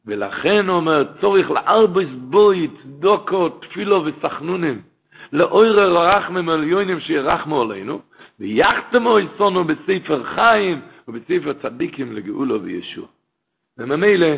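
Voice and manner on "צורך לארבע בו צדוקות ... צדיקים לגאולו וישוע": measured, slightly raised recitation; reciting a sacred text. Acted. Preacher quotes Seder HaYom to listeners, measured recitation. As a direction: read it out slowly, phrase by phrase. Continues reading the prayer passage.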